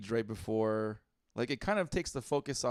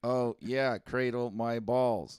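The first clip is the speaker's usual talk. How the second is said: robot voice; 3 semitones lower, 3 dB louder than usual. Retold or imitated. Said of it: "in his robotic voice".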